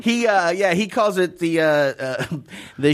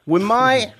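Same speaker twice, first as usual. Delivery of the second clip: British accent. Shown as a demonstration. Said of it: "do it in a British accent".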